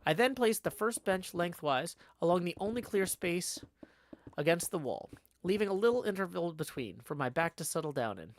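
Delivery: measured audiobook-style reading; story narration. A narrator's reading. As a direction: narrate the tale with lively phrasing. Reads the novel aloud.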